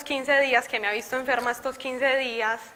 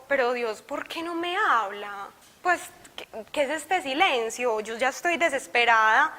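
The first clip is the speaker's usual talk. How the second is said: sad plea. Retold or imitated. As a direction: whimper the question to God, retold. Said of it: "llorando muy triste". (lamento triste y suave, recordado)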